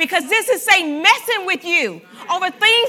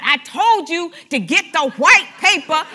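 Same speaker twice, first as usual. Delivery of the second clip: louder, sharp blaming tone; accusing; 6 dB louder than usual. Shown as a demonstration. Spouse blaming partner over pink toilet paper, loud and accusing. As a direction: scold the spouse for the wrong paper.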